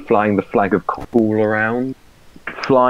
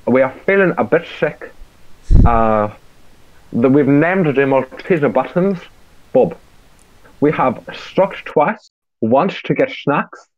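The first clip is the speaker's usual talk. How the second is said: put-on South African accent; 3 semitones higher than usual. Listing car snacks for the podcast, mock South African accent. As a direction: keep the update going in a bad South African accent. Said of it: "It sounds like an Asian with a concussion".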